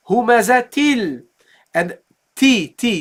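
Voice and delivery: humazatil with the ta clearly sounded; pronounce the ta. Shown as a demonstration. Teacher contrasting the two endings. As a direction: read humazatil, keeping the ta. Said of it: "We say".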